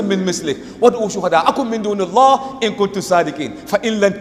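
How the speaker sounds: rapid, continuous Arabic recitation; Quran recitation. Acted. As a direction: recite the long verse fluently from memory.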